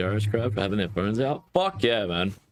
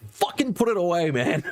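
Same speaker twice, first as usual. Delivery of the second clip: mock angry order; 9 semitones higher than usual. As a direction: bark it at mum, half joking. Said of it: "was like".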